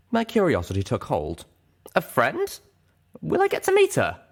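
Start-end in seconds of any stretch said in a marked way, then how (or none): 1.9-4.2 eager. Acted. Eager curious questions.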